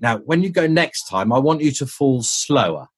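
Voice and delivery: eager, mildly excited request in retelling; excited director. Retold or imitated. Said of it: "all excited".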